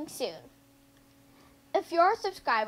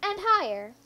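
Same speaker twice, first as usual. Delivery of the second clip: higher, lifted delight; rising excitement; 6 semitones higher than usual. A narrator's reading. Reader telling children the swing goes higher, excited. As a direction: lift it like a swing soaring.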